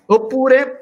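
hiccup jolts the word up high; word broken by a sudden hiccup. Real, not acted. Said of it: "scusate il singhiozzo".

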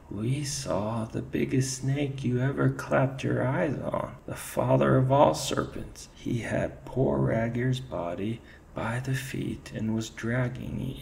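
high, awed, disbelieving; incredulous. Acted. Ferret describing the giant serpent in awed disbelief. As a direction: tell it as if you can't believe it. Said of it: "He spoke incredulously".

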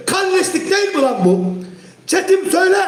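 shouting the accusation at chat; angry shout. Real, not acted. Streamer yelling at rival fans in chat, angry shout.

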